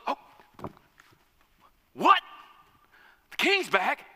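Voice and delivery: high, loud and fast panicked babbling; frantic, scrambling for the shovel; panicked servant. Acted. Lazy servant panics to his wife, high frantic babble. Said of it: "he's fearful".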